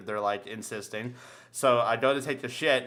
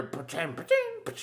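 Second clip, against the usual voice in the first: imitated door noise; 6 dB quieter than usual. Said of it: "I hear".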